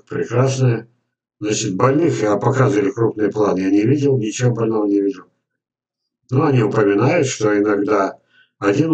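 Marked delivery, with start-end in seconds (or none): none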